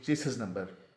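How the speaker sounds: चेसिस with the final s sounded; common mispronunciation. Shown as a demonstration. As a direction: say चेसिस as "che-sis". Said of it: "और गलत अदा करते". (चेसिस, आख़िर में "स" के साथ)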